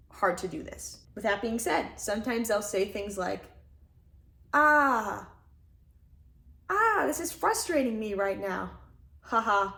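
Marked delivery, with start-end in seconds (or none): 4.5-9.7 hammed-up whine with a laugh at the end; silly playful voice. Shown as a demonstration. Showing listeners how to vent anger playfully, silly voice. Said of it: "It's sort of a silly speaking voice with a playfulness".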